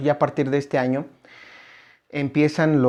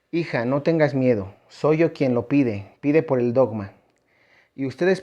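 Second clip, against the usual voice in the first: raised, formal reading of a holy message; solemn message reading; 3 dB louder than usual. Acted. Preacher reads the Lady's message to the congregation, solemn and raised. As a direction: proclaim the words like a read-out revelation.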